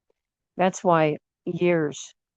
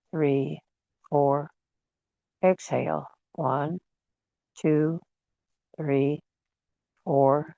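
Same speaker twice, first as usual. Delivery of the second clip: guided breathing meditation. Real, not acted. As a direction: gently lead them through each breath, unhurried. Leads a guided breathing exercise.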